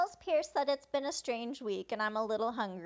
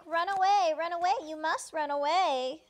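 raised, louder mock urgent plea; retold urgent warning; 5 semitones higher, 5 dB louder than usual. Character telling another to run away, urgent warning. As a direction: act out a pressing warning.

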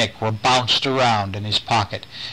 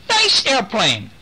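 slow, high coaxing call; calling coaxingly; 10 semitones higher, slower than usual. Acted. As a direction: lure the toddler, slow and high. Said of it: "Nick is calling to him".

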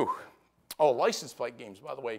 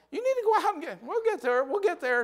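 mock exasperated urging. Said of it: "it's like".

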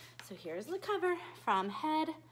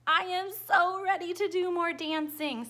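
louder, eager reply; excited answer; 4 semitones higher, 7 dB louder than usual. Acted. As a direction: answer like a thrilled kid.

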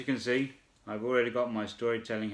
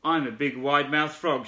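lightly raised proud frog voice; mild frog shout; 2 semitones higher, 3 dB louder than usual. Acted. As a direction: announce it proudly. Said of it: "shouted the big wide-mouthed frog".

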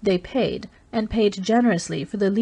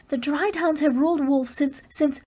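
Dalisa's proud outburst; 8 semitones higher than usual. A narrator's reading. Dalisa defending the Dry Towns to Race, fierce and proud. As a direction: push the pride and fury of an old people.

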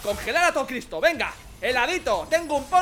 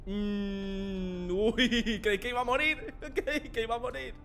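laughing relief; 6 dB quieter, much slower than usual. Real, not acted. Survives a fall, laughs.

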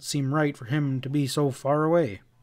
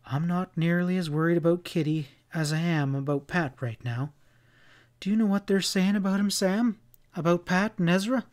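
higher-pitched, concerned frontier wife; a hint of a fretful woman; lightly voiced worried woman; 4 semitones higher than usual. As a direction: press an anxious question on a friend. Voices Sally in the story.

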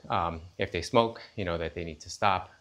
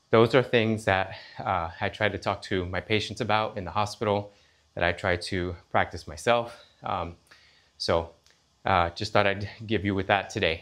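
huffing and puffing. Real, not acted. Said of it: "sorry about the huffing and puffing".

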